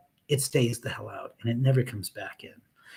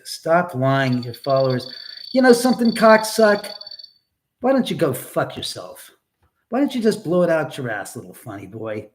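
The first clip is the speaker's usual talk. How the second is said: angry rant; 3 semitones higher, 6 dB louder than usual. Real, not acted. Angry rant at chat troll.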